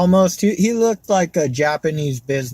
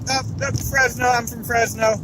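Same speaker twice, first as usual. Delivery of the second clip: higher-pitched, mildly flustered imitation; nervous alien; 4 semitones higher than usual. Comic retelling of an alien pretending to be human, nervous. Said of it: "he was so nervous".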